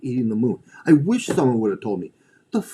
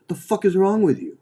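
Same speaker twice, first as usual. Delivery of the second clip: blunt yell; 8 semitones higher than usual. Retold or imitated. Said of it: "The one thing they don't hear is".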